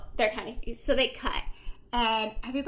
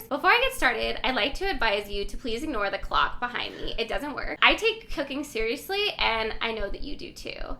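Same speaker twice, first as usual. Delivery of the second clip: louder, measured cooking show host opening; formal TV host address; 2 semitones lower, 4 dB louder than usual. Retold or imitated. Host Elizabeth opens her cooking show with a formal, louder address. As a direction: announce it like a prim TV chef addressing viewers. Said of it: "addressing her viewers".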